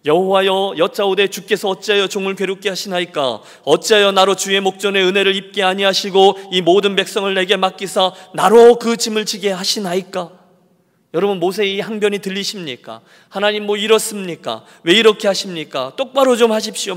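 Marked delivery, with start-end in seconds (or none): 0.1-10.4 Moses protests to God, raised and pressing; arguing with God. Acted. Preacher voicing Moses arguing with God, louder. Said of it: "하나님을 향해서 막 따지고 있어요". 13.3-16.9 loud, higher complaining demand at God; whining protest. Acted. Moses demanding of God, loud and higher. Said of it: "막 떼를 쓰는 거예요".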